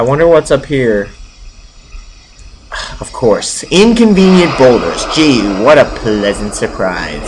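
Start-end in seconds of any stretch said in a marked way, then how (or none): 3.0-7.3 dry slow sarcasm; mock delight at the obstacle; sarcastic. Real, not acted. Player mocking yet another blocking boulder, sarcastic.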